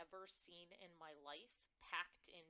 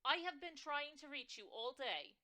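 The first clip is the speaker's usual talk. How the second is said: much louder, higher New York mom; yelling mother; 8 semitones higher, 11 dB louder than usual. Acted. Mother scolding her daughter by phone, yelling. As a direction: blast it down the phone line. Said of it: "Why are you yelling?".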